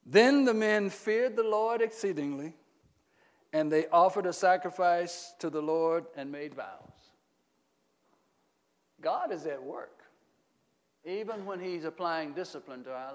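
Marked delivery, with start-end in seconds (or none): 0.1-7.1 verse read out firmly, strong start easing down; emphatic scripture reading. Acted. Reads scripture aloud to congregation.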